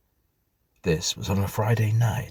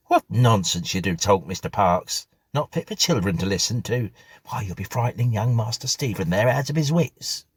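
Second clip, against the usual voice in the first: louder, brisk scolding servant; scolding housekeeper; 3 semitones higher, 4 dB louder than usual. Acted. Mrs Bunch scolds Parks for frightening Stephen, louder scolding. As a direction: tell him off in front of the child.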